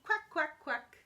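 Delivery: high, short quacks; happy duckling quack. Acted. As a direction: quack lightly like a happy little duck. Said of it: "When I'm feeling happy, I say".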